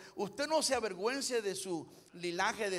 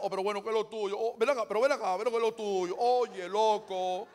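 loud mock Dominican accent; 2 semitones higher, 5 dB louder than usual. Preacher mimicking a Dominican's challenge, Dominican accent. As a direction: put on a rapid-fire Dominican accent, building louder. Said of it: "Y si es dominicano".

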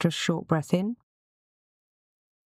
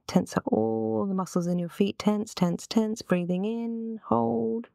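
higher pitch, climbing to a sustained hold; building tension; 6 semitones higher than usual. Real, not acted. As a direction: coach the inhale and squeeze, voice rising. Coaching muscle tensing on inhale.

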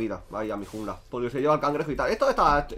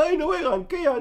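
high-pitched mocking crybaby whine; put-on complaining voice, pitched way up; mock whining; 12 semitones higher, 4 dB louder, slower than usual. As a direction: imitate a whiny player begging for help. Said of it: "como me lloran a mí".

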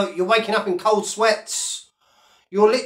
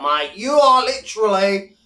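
usual speaking voice

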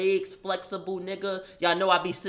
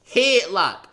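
punchy announcement; 9 dB louder than usual. Retold or imitated. Announcing the grab.

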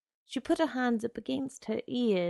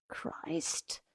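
spat curse; 4 semitones lower, 8 dB quieter than usual. A narrator's reading. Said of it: "a fast spat curse".

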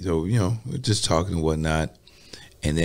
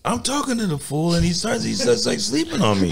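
high-pitched, laughing through the story; laughing while telling. Real, not acted. Telling the friend about Ron Jeremy falling asleep, laughing. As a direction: keep laughing as you tell it.

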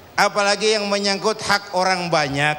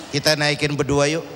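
calm father; 6 semitones lower than usual. Acted. Father answers son.

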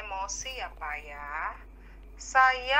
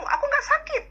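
laughing; 13 semitones higher than usual. Real, not acted. Laughs while dismissing insult.

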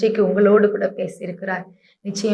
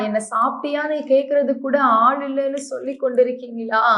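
mock lament; 3 semitones higher than usual. Preacher voicing a lonely listener's lament, mildly tearful. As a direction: voice a lonely listener's complaint with a hint of crying. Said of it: "அழுது புலம்பிக் கொண்டிருக்கீங்களா".

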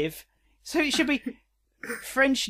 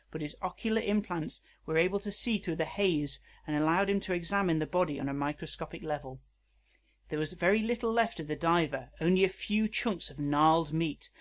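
measured read-aloud narration; narrating a written story; 2 semitones lower, 4 dB quieter than usual. Acted.

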